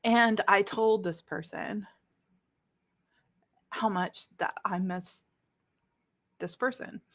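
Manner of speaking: real emotion, halting between phrases; getting emotional. Real, not acted. Telling of missing someone estranged, getting emotional. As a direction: struggle through it with long pauses, holding back tears. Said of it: "I'm getting emotional here".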